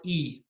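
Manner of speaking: "E" said as a long ee; a tense ee as in "see" for "E"; long iota. Shown as a demonstration. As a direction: say "E" as a held ee sound. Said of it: "When it's long".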